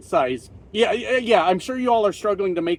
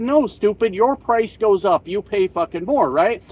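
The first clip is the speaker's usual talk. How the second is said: scolding; 3 semitones higher, 4 dB louder than usual. Retold or imitated. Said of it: "And we said".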